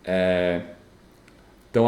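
usual speaking voice

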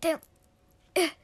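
put-on a fussy boy ordering people out; disgusted protest. Boy chasing his sister from his room, disgusted protest. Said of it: "He's like".

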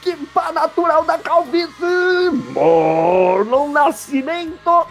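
high, loud, drawn-out name announce; announcer intro. Acted. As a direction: stretch the name like a ring announcer. Host announces second guest.

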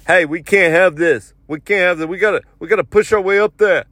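mock urgent complaint; impatient urging. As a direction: mimic an impatient man rallying the line. Impatient man urging line forward.

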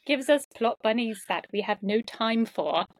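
American's mock British, laughing midway; playful attempt at British English; put-on British accent. American reading scripted tease about a friend, put-on British accent. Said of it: "talk like a British person".

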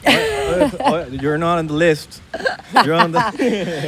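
drawn-out Miami doorman; Miami accent. Acted. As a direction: turn someone away in Miami English. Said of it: "¿Tú, tú estás con un promoter". (acento de portero de Miami)

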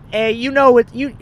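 high, loud promo-video host; mock an overexcited camera host; imitated hype woman. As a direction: hype it up loudly. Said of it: "she's like".

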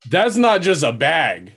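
slow it down in astonishment at the sight; amazed, stretched-out exclamation; real amazement. Real, not acted. Reacting to photo of drugs.

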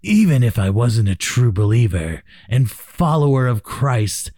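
deep, dramatic trailer narrator; movie trailer voice. Retold or imitated. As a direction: boom it out like a trailer voice. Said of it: "like the movie trailer voice guy".

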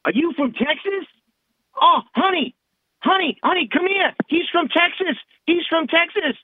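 put-on high, loud Long Island accent calling out; hammed-up Long Island accent, high and excited. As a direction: imitate a Long Island local calling someone over. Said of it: "I'll use the Long Island accent".

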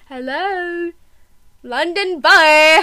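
mock London accent, drawn out; put-on British accent. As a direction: play at a London boy accent. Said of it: "Why are we talking in accent?".

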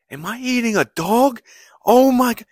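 high, loud panicked shriek; freaking out. Retold or imitated. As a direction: shriek it like you just realised what you ate. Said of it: "He starts f-, freaking out".

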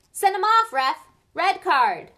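loud, high yelling at the ref; angry yell. A narrator's reading. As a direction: yell it furiously from the stands. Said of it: "Dean Thomas was yelling".

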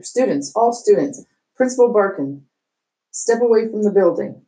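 principal ordering. Acted. Principal ordering students away.

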